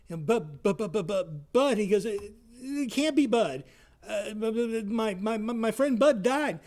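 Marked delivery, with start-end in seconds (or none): 2.0-6.6 mock-shocked stammering, slowed; a lightly acted stutter of shock; stunned stammer. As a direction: stumble over the words in disbelief. Chuck shocked by dead friend's call.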